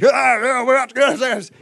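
high, loud mock thunderous yell; hammed-up booming outburst; loud, rough roar. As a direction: roar it out like hot-headed brothers. Acting out sons of thunder.

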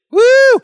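high, loud "woo"; whoop. Real, not acted. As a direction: let out one sudden high whoop. Preacher whoops after the shouted quote.

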